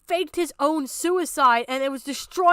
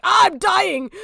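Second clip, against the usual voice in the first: mock chat yell; 5 semitones higher, 7 dB louder than usual. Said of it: "people are like".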